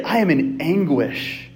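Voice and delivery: slow, deliberate declaration of anguish; mock anguish stated plainly and slowly. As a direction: lean on each word, measured and grave. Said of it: "But you say".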